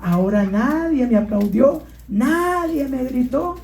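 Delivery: a mild put-on sulk; sad donkey. Donkey complains to mother, mildly sad. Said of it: "el burrito llegó triste".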